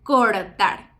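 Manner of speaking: "cortar" with a tap before the T and a final tap; both R's in "cortar" as single taps; tap R demo. Shown as a demonstration. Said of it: "posición trabada cuando decimos".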